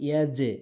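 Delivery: ইয়াজে with a bouncing echo on the j; qalqalah. Shown as a demonstration. Teacher showing the qalqalah rule, echoed j in ইয়াজে. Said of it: "অতএব এখানে উচ্চারণ হবে".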